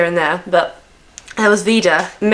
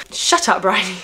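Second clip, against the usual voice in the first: quick mock self-rebuke; self-scolding. Real, not acted. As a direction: tell yourself off in a breath. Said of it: "I literally tell myself to shut up".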